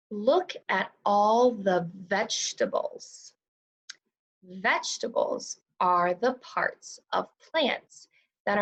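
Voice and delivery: drawn-out choral pace, long pauses between sentences; very slow read-along. Shown as a demonstration. Teacher reading along with second graders, very slow and clear. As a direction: read it extra slowly so the class can follow along. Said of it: "we took it really nice and slow".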